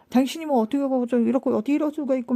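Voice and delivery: fast mock scolding; pretend angry confrontation. Modelling how she should confront me if angry, mock-angry. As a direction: rattle off a heated complaint, half in earnest. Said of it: "그렇게 심하게 화가 나면".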